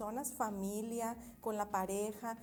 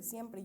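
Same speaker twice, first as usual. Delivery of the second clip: siempre said slowly and firmly; stress on siempre; 3 dB quieter than usual. Shown as a demonstration. Therapist underlines siempre for listeners, slow and firm. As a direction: lean on the word siempre. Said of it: "yo puedo remarcar esa palabra".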